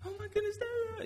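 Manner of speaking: put-on pouting toddler. Father recalls his toddler daughter pouting at him, high whiny imitation. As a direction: imitate a two-year-old pouting at her dad. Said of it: "just be like".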